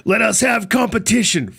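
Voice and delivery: lightly acted warrior declaration; Spartan battle line. Host acting the Spartan kick for co-hosts, mock warrior. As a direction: deliver it like a warrior before the kick. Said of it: "like, the whole Spartan kick".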